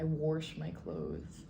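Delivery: wash said like warsh, Iowa style; Iowa accent. Shown as a demonstration. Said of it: "You're saying it like W H O R S H".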